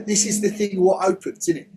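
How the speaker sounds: a lightly voiced London geezer, "what opens, isn't it?"; playful London accent with a tag question. Shown as a demonstration. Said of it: "in a kind of London accent".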